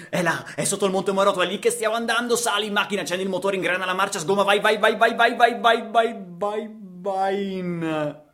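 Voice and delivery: high, loud, rising excitement; high loud eager go go go; excited urging. Acted. Urging the car forward excitedly.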